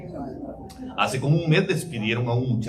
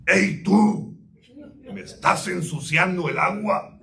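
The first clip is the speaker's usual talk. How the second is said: lion's voice; 4 semitones higher than usual. Acted. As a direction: bark it down at the little deer like an angry lion. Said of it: "lo espantó la voz de león".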